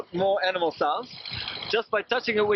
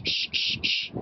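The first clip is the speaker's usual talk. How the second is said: whistle hiss; slower than usual. Shown as a demonstration. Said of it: "you can make other sounds by saying shh".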